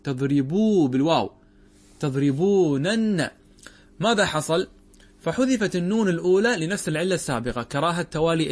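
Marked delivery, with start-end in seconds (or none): 2.0-3.3 تضربونن stretched very slowly, every syllable and both nuns distinct; slow spelled-out form. Shown as a demonstration. Grammar teacher spelling out a verb form for students, very slow. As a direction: draw out تضربونن syllable by syllable so each nun is heard. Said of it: "أصله تضربونن".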